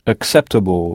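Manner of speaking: "Acceptable," with stress on CEPT; teacher repeats. Shown as a demonstration. Teacher repeats the English word for learners. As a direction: echo "Acceptable," English style. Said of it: "comment direz-vous acceptable?".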